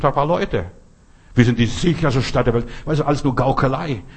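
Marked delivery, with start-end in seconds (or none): 1.3-2.7 lauter, empörter Nachsatz mit Betonung auf „Wir“; empörtes Zitat. Retold or imitated. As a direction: das Zitat laut und ungläubig hinwerfen. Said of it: "ich verstehe den Bürgermeister nicht". (empört über den Bürgermeister, laut zitiert)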